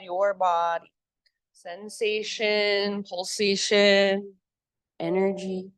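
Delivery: slow, low yoga-teacher voice; guided meditation. Real, not acted. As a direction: guide them into stillness, drawing words out with long pauses. Leads a grounding rest in yoga.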